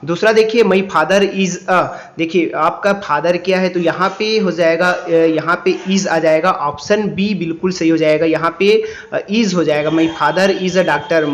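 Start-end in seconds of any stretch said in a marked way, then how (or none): 0.6-1.9 slow read-aloud. Shown as a demonstration. Reads question. 9.9-11.3 slow read-aloud. Shown as a demonstration. Reads completed answer.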